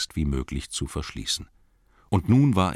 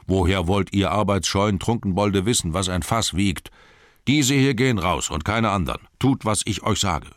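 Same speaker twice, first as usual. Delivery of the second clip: angry cellarman; 3 semitones higher, 4 dB louder than usual. Acted. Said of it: "knurrte der Kellermeister".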